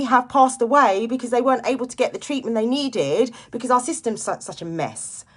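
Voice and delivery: venting real anger about her mum's pain; emotional anger. Real, not acted. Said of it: "I get emotional about it and I'm getting angry about it".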